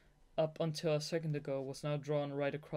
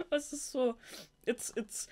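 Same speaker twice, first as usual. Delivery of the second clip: gushing; 9 semitones higher, 3 dB louder than usual. Real, not acted. Reader gushing about novel.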